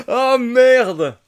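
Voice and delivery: high, loud startled oh merde; stunned swearing; shocked curse. Real, not acted. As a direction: blurt it out in disbelief. Shocked at friends' death.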